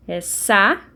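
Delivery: "sa-u-de" said as three separate syllables; teacher splitting "saúde" into syllables; syllables split. Shown as a demonstration. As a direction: pause between sa, u and de. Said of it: "elas ficam em sílabas separadas".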